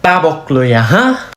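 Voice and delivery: mock threat. Warning someone of a slap, mock-angry threat. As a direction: threaten lightly, then jab upward.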